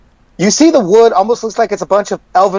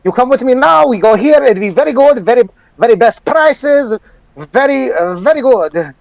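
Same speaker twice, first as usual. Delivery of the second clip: merchant voice; 2 semitones higher than usual. Acted. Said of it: "He goes".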